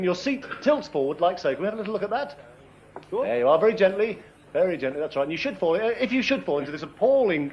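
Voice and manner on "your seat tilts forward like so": words round the foam in the mouth; mouth full. Real, not acted. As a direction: still talking through a mouthful. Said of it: "it's not easy to talk with a mouthful".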